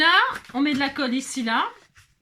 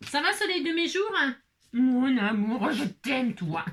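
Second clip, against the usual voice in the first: tendre. Real, not acted. Parle tendrement à son animal.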